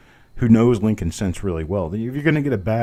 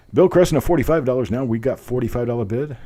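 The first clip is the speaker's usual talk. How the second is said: higher, louder auctioneer call; 3 semitones higher, 4 dB louder than usual. Shown as a demonstration. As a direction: belt it out like an auctioneer. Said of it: "I'm actually trying to sound like a real auctioneer".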